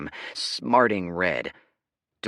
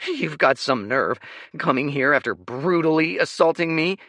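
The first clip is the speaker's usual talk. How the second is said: angry and frightened; 9 semitones higher, 7 dB louder than usual. Acted. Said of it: "equal parts angry and frightened".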